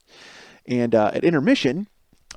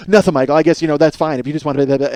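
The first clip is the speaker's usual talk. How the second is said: snippy wife; 6 dB louder than usual. Retold or imitated. Wife snippy reply retold.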